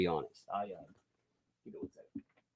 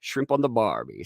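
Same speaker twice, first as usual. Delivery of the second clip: lightly attempted Aussie accent; a Southerner's weak stab at an Aussie accent; 3 semitones higher than usual. Shown as a demonstration. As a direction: try Aussie, not very convincingly. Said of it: "Can you try an Aussie accent".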